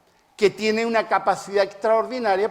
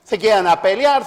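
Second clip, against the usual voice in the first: énfasis fuerte; 3 semitones higher, 6 dB louder than usual. Shown as a demonstration. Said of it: "No pasan".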